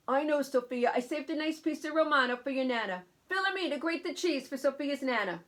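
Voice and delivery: shopkeeper voice. Acted. Shopkeeper's voice in story.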